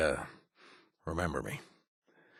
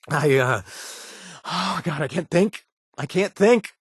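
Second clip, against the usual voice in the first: panicked; 8 semitones higher than usual. Acted. Panicking over captured kid.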